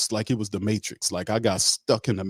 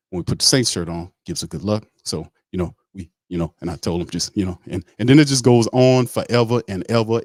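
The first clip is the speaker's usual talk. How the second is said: rambling guy impression. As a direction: ramble on like you'll never stop. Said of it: "that's how the guy talks".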